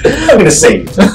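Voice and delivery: excited shout. Real, not acted. Shouting mid-chase.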